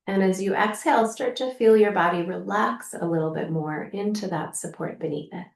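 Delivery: calm, gently softening guidance with long pauses; unhurried, lightly hushed meditation voice; guided meditation. Acted. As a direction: guide the listener gently into the body, leaving room to breathe. Leads a guided practice.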